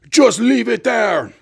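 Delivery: high, slow mock yell; imitated yelling. Shopkeeper answering the baffled customer, imitated yell. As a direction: mimic an exasperated shopkeeper's drawn-out order. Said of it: "to a guy in a turban yelling".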